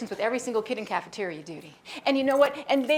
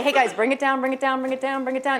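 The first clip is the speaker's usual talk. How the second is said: put-on calling kids down. Shown as a demonstration. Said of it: "we can say".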